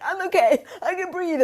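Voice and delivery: high, loud forced-cheerful voice; mock brave face. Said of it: "you're like".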